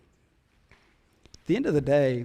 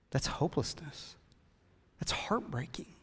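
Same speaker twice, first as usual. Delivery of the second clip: hushed whisper of heartbreak; whispered sorrow to the congregation; 10 dB quieter than usual. Real, not acted. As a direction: drop to a breathy whisper, grieved. Sermon on hopelessness, hushed aside.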